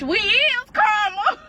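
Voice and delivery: high, loud, drawn-out sass; slow punchline. Retold or imitated. Sister claims to be karma, slow and sassy. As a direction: land it like a mic drop.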